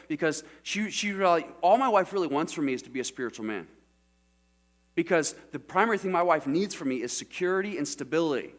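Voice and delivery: ordinary talk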